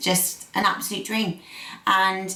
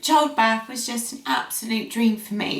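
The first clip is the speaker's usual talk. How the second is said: teary; 3 semitones higher than usual. Real, not acted. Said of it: "I can't stop crying".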